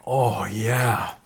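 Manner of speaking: mumbling while chewing; mouth full. Real, not acted. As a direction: speak round a bite. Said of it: "I'm eating a".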